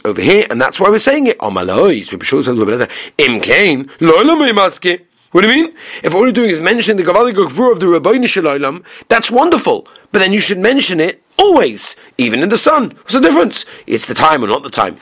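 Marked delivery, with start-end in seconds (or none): 3.2-13.6 challenging question. Retold or imitated. Rabbi challenging his colleague, high incredulous voice. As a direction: push back like a skeptical scholar. Teacher voicing Reb Shua's challenge.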